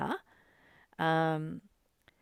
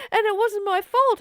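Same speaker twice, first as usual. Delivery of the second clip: half-laughing protest; 11 semitones higher, 8 dB louder than usual. Real, not acted. Indignant, laughing retelling.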